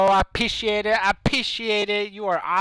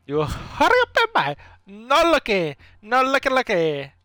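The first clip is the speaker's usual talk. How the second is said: mock Asian accent; 5 semitones higher than usual. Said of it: "I wanna hear the Asian guy".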